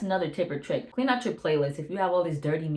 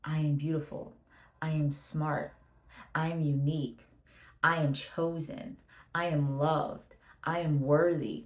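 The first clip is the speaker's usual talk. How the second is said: soft, unhurried affirmations, a pause before each; quiet affirmations; 3 dB quieter than usual. Shown as a demonstration. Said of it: "just say in your mind".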